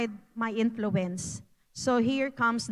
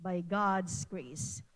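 through tears; 5 semitones lower, 4 dB quieter, slower than usual. Pretend. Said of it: "even in the middle of the crying".

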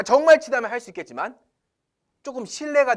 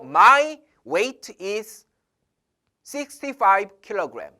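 slow example; 4 dB louder, much slower than usual. Shown as a demonstration. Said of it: "이런 식으로 우리나라 사람들 많이 쓰지만".

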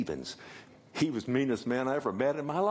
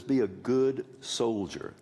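quoting scripture slowly; slower than usual. Shown as a demonstration. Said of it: "it says".

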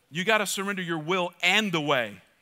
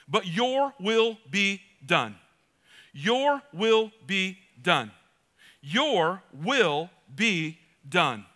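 very slow, drawn-out surrender; slow solemn your will be done; slow prayer; much slower than usual. Acted. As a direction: pray it slowly, letting go.

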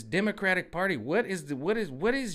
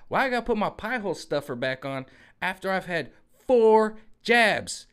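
loud, higher whining with a laugh; whiny complainer; 5 semitones higher, 5 dB louder than usual. Retold or imitated. Mocking a quadruple-jabbed person complaining, loud laughing whine. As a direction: whine about the mask, half laughing. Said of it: "the pie hole".

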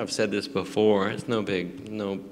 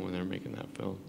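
holding back a burp; words caught on a burp; 8 dB quieter, faster than usual. Real, not acted. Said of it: "I'm burping".

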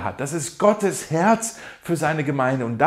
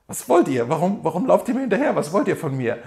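amused quote; 4 semitones higher than usual. Retold or imitated. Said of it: "Ich finde das total lustig".

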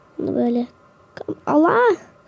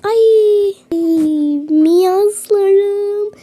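higher, louder alarmed call to the viewers; startled call; 6 semitones higher, 6 dB louder, much slower than usual. Real, not acted. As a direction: cry out as a forgotten thing hits you. Suddenly remembers something forgotten. (unuttuğunu fark edince yüksek sesle şaşkın seslenme)

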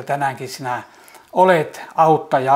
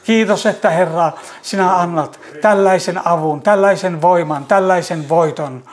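raised, louder and higher, swelling praise; fervent praise; 4 semitones higher, 4 dB louder than usual. Real, not acted. Praying for the weary, rising into fervent, louder praise. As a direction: let the prayer swell into ringing praise.

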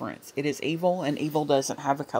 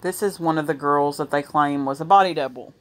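hoarse, strained voice; losing voice; 3 dB louder than usual. Real, not acted. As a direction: voice giving out, hoarse. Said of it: "I'm losing my voice".

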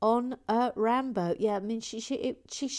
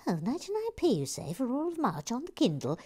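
mock surprise; 5 semitones higher, faster than usual. Echoing a viewer's book plug.

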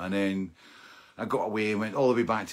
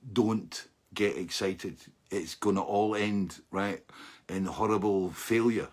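inner voice; 3 semitones lower, slower than usual. Retold or imitated. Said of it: "the little voice inside my head was going".

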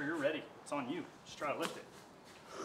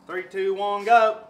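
loud countdown; 6 semitones higher, 14 dB louder, slower than usual. Real, not acted. Counting in a lift.

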